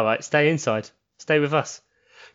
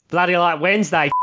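mock Australian; 3 semitones higher than usual. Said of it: "it's an Australian accent".

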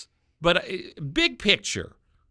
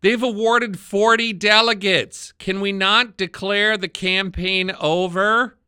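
loud, higher, drawn-out complaint; old person lament; 4 semitones higher, 5 dB louder than usual. Pretend. Host airing his usual gripe about the caucuses, mock lament. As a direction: lament it slowly and loudly like an exasperated old-timer. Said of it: "unleash my usual old person lament".

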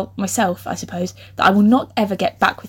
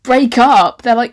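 normal talking voice

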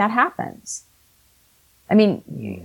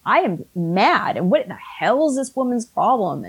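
retold victim anger; 3 semitones higher than usual. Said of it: "I got into my victim mode".

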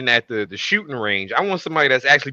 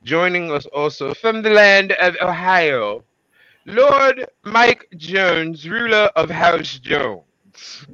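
ringmaster; 4 semitones higher, slower than usual. Pretend. Grand introduction of third host.

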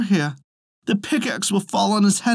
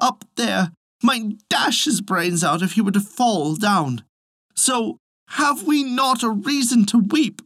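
higher, slowing wail of worry; tearful lament; 8 semitones higher than usual. A narrator's reading. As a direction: Elsie pleading with Hans, mildly tearful. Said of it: "said Elsie".

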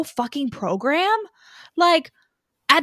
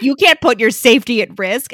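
louder, mock-stern scolding; stern brunch daddy; 5 dB louder than usual. Host imitating Adam fretting about bike safety, mock stern. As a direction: lightly play an upset, protective daddy. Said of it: "Stern, stern brunch daddy gets upset".

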